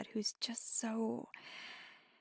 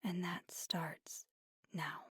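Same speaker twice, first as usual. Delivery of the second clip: softer, subdued, with long pauses; quiet apology; 5 dB quieter than usual. Acted. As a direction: apologize gently and mean the promise. Apologizes and promises after the call.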